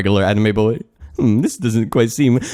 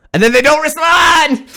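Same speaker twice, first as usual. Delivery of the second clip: high, loud indignant cry; frustrated high yell; exasperated outburst; 6 dB louder than usual. Real, not acted. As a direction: shout it up high in disbelief. Exasperated complaint about players.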